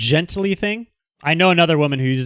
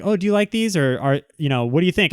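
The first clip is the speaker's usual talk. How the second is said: higher imitated girl voice, unsure; customer asking; 3 semitones higher than usual. Customer asking the salesman's opinion, lightly imitated high. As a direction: voice her, pitched up and hesitant. She's like.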